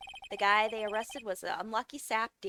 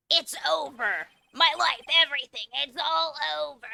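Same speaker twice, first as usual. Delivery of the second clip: despairing Larry; 5 semitones higher, 6 dB louder than usual. Acted. Larry despairs over trial.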